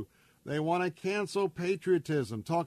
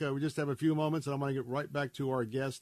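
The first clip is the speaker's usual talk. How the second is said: fast, hurried host read; rushing before cutoff; faster than usual. Real, not acted. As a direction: rush it, short on time. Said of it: "I'm trying to rush so quick here".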